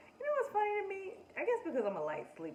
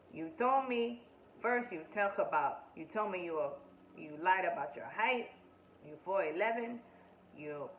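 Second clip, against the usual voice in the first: louder, fast pile-up of accusations; heated rant; 4 dB louder than usual. Retold or imitated. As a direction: throw every grievance at him. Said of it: "is heated".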